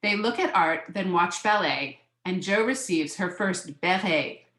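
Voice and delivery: measured picture-book reading; lilting read-aloud of a children's book; story narration. A narrator's reading.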